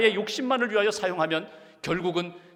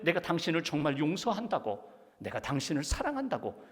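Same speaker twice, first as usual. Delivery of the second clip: softer, lower, sincere declaration; tender forgiveness; 3 semitones lower, 5 dB quieter than usual. Retold or imitated. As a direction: imitate a wife gently reassuring her husband. Wife tenderly forgives husband, unlike nagging. (진심을 담아 나직하게)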